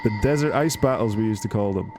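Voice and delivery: mock a smug lecturer inventing history; confident chatbot.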